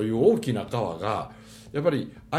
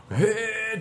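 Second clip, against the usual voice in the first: higher, drawn-out impressed reaction; mildly hammed-up wonder; retold admiration; 8 semitones higher than usual. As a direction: imitate everyone marvelling at trivia. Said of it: "ってみんなで感心してたんですよ".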